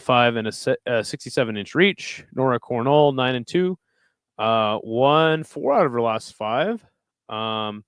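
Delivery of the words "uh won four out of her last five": slow sing-song with a rising end; slow, oddly rising stat read; odd drawn-out delivery. Real, not acted. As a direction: stretch the stat out slowly and lift at the close. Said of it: "I don't know why I said it like that".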